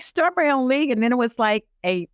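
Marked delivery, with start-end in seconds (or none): 0.0-0.9 high, retold incredulous echo. Woman telling of being told to start a league, incredulous. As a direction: repeat it in amazed disbelief. Repeats her disbelief at the call.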